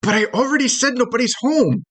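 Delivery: high-pitched little critter voice; tiny creature protesting. Acted. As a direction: object in a small, high voice. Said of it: "And the first one goes".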